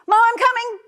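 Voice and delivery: loud, high-pitched yell on waking; startled yell. Retold or imitated. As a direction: yell it out like a kid answering mom. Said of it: "he yells".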